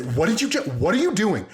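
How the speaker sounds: high, incredulous mock outburst; mad-sounding happy praise. Dad jumping up at kid's good deed, elated mock outrage. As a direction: sound furious but be thrilled. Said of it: "match the energy of getting mad, but I'm happy".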